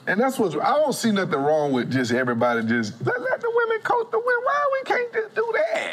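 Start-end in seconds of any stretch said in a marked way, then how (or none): 3.1-5.9 high, laughing outcry; laughing exclaim. Real, not acted. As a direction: throw it out half laughing. Exasperated argument about coaching.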